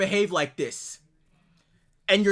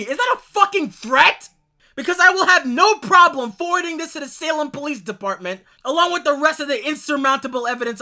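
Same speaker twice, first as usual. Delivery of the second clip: angry challenge; 4 semitones higher, 4 dB louder than usual. Real, not acted. Reacting to his threat.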